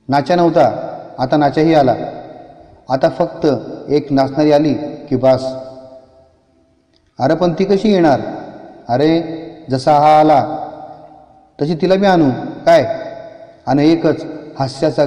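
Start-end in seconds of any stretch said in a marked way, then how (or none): 0.1-5.5 gloating ghost. Acted. Ghosts gloating over body. 7.2-8.2 curious ghost. Acted. Ghost asks. 8.9-12.9 a ghost gloating over its new victim. Acted.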